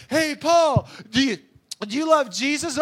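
mock calling out. People hailing Paul with a question, mock loud calling. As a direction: call out loudly in a put-on voice.

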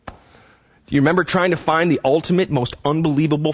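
usual speaking voice

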